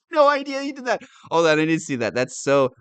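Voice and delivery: high, loud, astonished outburst; loud incredulous reaction; real disbelief. Real, not acted. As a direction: blurt it out, stunned by the news.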